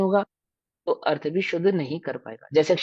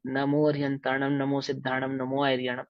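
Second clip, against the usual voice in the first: pure, careful recitation; 3 semitones lower, 5 dB quieter than usual. Shown as a demonstration. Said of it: "ऐसा शुद्ध उच्चारण होना चाहिए".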